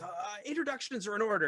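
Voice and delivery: brisk formal introduction; brisk host. Acted. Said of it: "and Augustus says".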